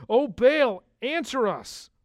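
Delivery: loud, high-pitched cry to a god; shouting out. Acted. Prophets of Baal begging their god, shouting out. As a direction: call out high and loud, pleading for an answer. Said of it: "They're shouting out".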